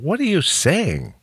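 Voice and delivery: high, slow puzzled question; acted bafflement. Host retells asking his buddy about the saying, high-pitched bafflement. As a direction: imitate yourself totally lost, pitch jumping up. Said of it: "I didn't understand it".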